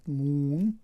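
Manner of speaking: مون with a long stretched oo like Persian دور; English word moon. Shown as a demonstration. Teacher to Tajik students, modelling English moon with long oo.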